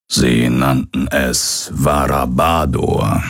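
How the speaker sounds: lightly voiced old pirate, slow and low in the grim lines. Hologram father telling his son his people are dead, slow and grave. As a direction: break the bad news gently but plainly.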